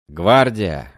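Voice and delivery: called out loud; loud password call. Acted. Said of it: "громко произношу я пароль".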